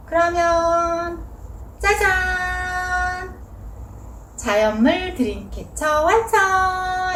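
slow, stretched ta-da with a lift; ta-da reveal. Acted. Teacher unveiling the finished dreamcatcher to viewers, stretched and showy. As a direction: draw out the reveal like a magic trick.

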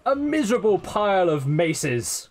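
hammed-up punch on "miserable"; mock-dramatic weight landing on "miserable"; stress on miserable. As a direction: lean hard on the word "miserable". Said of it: "Emphasis on the miserable".

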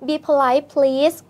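very slow, gentle English request with a rising please; polite plea. Retold or imitated. Retelling how the aunt asked the man politely, slow gentle plea. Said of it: "เขาก็พูดเพราะนะ".

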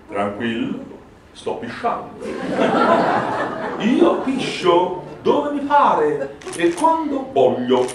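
put-on slow, unbothered old poet; haughty old poet. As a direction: recite it like a smug old bard. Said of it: "il poeta cominciò".

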